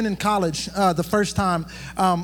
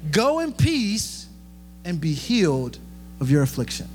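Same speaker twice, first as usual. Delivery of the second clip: tender blessing. Acted. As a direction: bless her gently and take your time. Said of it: "this is my favorite part".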